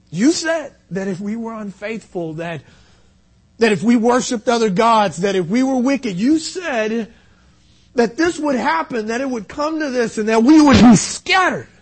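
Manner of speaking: preached prayer, building to a loud peak; impassioned prayer. Acted. Nehemiah reminds God of his warning, impassioned prayer. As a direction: build the plea toward its last word.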